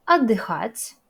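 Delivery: отдыхать said loud and articulated; Russian model word. Shown as a demonstration. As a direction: model отдыхать clearly for beginners. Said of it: "notez la prononciation de long de". (отдыхать articulé fort et clair)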